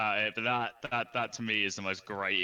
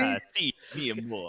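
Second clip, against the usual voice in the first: put-on Spanish accent. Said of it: "He's got a slight accent".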